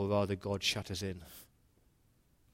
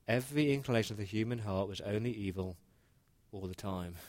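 softer, weighing each word; quiet solemn repeat; 6 dB quieter than usual. Shown as a demonstration. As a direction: let the verse sink in quietly. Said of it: "No, it's not harsh. It's actually spot on".

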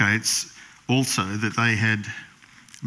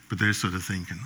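ordinary delivery

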